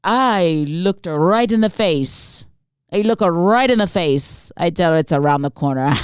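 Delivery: hammed-up European accent, gloating; exaggerated European-accented boasting; mock European accent. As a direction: brag in a badly faked European accent. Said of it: "He sounds European".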